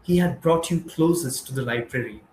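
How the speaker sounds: measured recitation with pauses between phrases; poem reading. Acted. Poet reads a dedication to gathered poets, measured poem reading. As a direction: read it as verse, phrase by phrase.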